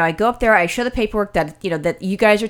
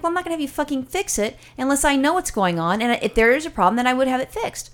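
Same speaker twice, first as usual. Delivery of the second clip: retold anger; 5 semitones higher than usual. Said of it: "more pissed and more irate".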